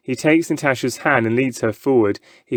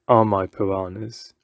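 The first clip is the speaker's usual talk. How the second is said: showman; 4 semitones lower than usual. A narrator's reading. Pancho presents fish.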